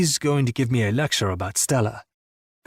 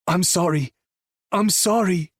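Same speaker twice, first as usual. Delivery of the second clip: remorseful apology; 5 semitones higher than usual. Acted. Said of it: "He keeps saying it".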